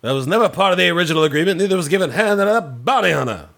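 Lando impression. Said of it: "Let's hear your Lando".

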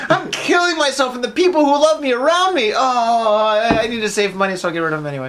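mock epiphany laughing. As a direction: ham up a sudden life crisis through laughter. Mock self-realization quote.

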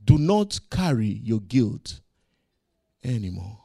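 lightly voiced God speaking to believers; God's gentle voice. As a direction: release them from guilt. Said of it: "he's telling us".

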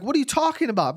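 high-pitched baffled protest; acted-out indignant bafflement; retold mad confusion. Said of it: "but I'm mad".

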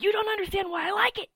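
high, loud mocking whine; mock whiny retort. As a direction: imitate a friend's exasperated reply. Mocking the other person's retort.

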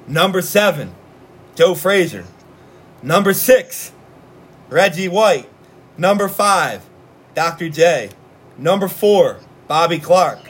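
punchy list read, pausing between names; countdown announcement. Acted. Host counting down the top ten athletes, announcer-like countdown. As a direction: announce each rank, then the name.

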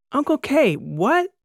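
high, loud confused call; shouted back. A narrator's reading. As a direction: niece yelling back down the hallway. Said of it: "she shouted back down the hallway".

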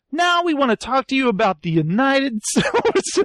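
imitated recruiter, cracking up; mock pitch. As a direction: pitch it grandly, breaking into a laugh.

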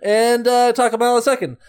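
high greasy smoker voice; Pete impression. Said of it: "I'll do a Pete impression".

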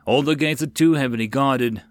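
talking with a mouthful of food; mouth full. Acted. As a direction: chew through the words, mouth full. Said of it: "said with a mouthful of grilled grass rodent".

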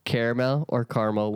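"Caramel" as kehr-uh-mel, then "caramel" as kar-mul; two ways to say caramel. Shown as a demonstration. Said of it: "whichever you say".

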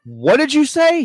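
calling upstairs. Retold or imitated. Dad calling up to son.

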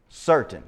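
certain said alone, weighted and falling; emphasize certain. Shown as a demonstration. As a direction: lean on the word certain. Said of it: "Just emphasize the word certain".

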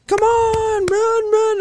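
high, loud cheering call; cheering spectator. Retold or imitated. Spectators urging him to run, high loud cheer. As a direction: shout encouragement from the sidelines.

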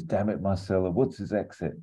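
a touch of urgency and panic; a bit panicked. Acted. Suited man radios Marcella during a chase, a bit panicked. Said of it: "It's a bit panicked".

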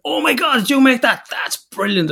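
put-on high, over-the-top delight at a child's drawing; gushing praise. Dad mimicking creche gushing over kids' crafts, high and excited. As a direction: gush like a nursery teacher.

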